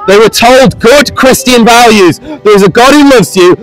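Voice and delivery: street preaching. Real, not acted. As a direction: call out to a passing crowd. Preaches to the passing crowd.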